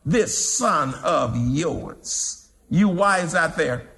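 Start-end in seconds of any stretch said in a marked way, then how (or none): 0.0-2.5 scornful. Acted. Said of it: "That's pride".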